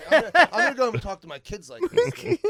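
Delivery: mock Asian accent, laughing. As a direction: laugh while hamming the accent. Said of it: "in his accent".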